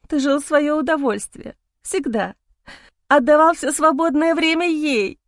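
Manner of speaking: high accusing wife; hoarse scream. Acted. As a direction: hurl accusations, voice cracking. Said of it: "Охрипший крик жены".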